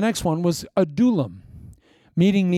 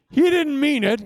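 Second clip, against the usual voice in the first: much higher, squeaky excuse; high defensive plea; 11 semitones higher, 3 dB louder than usual. Retold or imitated. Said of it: "He's going".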